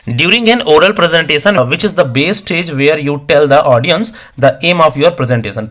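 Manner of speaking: reads the English question very slowly, word by word; slow question reading. Acted. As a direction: dictate the exam question slowly for students. Teacher reads exam question aloud. (धीरे-धीरे प्रश्न पढ़ना)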